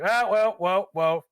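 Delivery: loud, high run of whoas; mock-panicked "whoa, whoa"; imitated alarmed protest. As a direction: cry out to halt someone, play-acted. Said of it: "cuts back to her like".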